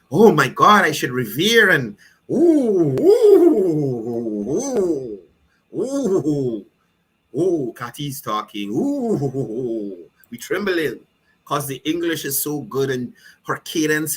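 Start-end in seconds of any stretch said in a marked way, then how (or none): 0.1-1.7 loud, hammed-up gasp of reverence; mock awe. Mocking the minister's fans, loud mock awe. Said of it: "highfalutin individual". 2.3-11.0 hammed-up cooing oohs; mock swooning. Mocking how people swoon over her, hammed-up cooing. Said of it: "highfalutin individual".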